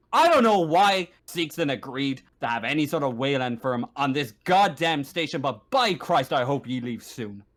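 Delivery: gruffly fed-up complaint, hitting the curse; irritated grumble. Acted. Marshal telling the newcomer to leave soon, irritated. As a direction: start loud, grumble down to the end.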